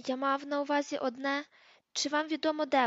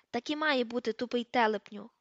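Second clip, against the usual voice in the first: a stern teacher snapping back, raised voice; McGonagall shouting; 3 dB louder than usual. Acted. McGonagall cuts off the caretaker, stern raised shout. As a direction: scold the caretaker with a moderately loud bark. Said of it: "крикнула МакГонагал".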